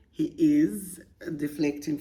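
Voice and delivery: conspiratorial whisper. Real, not acted. Host whispering a warning to the letter writer. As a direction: lean in and whisper it. Confiding whisper about boyfriend.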